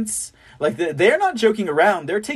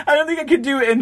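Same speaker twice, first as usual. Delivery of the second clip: higher, faster, through real laughter; laughing; 8 semitones higher, much faster than usual. Real, not acted. Host giving up on the Michigan accent, laughing. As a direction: say it still cracking up, pitched up.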